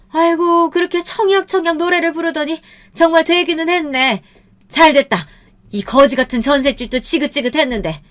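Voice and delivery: put-on high-pitched, exclaiming older woman; gloating mother-in-law. A narrator's reading. Mother-in-law hearing they won the apartment, gloating.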